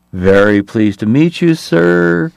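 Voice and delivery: startling high voice. Acted. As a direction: let a huge man squeak out a greeting. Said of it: "in a startling high voice".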